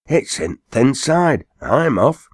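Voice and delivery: high, slow, scared Lancashire driver; a spooked coachman bolting in fear; frightened cry. A narrator's reading. Coachman scared of the hearse noise, high frightened cry. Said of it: "cried he".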